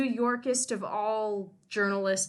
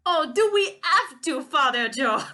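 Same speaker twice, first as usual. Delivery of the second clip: put-on higher, louder whining boy; a reluctant pupil begging off; young Pierre groaning at his tutor; whiny boy; 5 semitones higher, 8 dB louder than usual.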